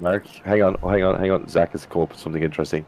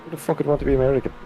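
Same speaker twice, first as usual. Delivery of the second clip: incredulous rant; 9 semitones higher, much faster than usual. Real, not acted. Ranting about Americans.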